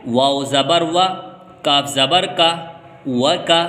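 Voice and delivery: measured, level chant, syllable by syllable; Quranic spelling recitation. Shown as a demonstration. Teacher moving to the next word, chanted spelling. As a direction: spell out each letter with its vowel, then join.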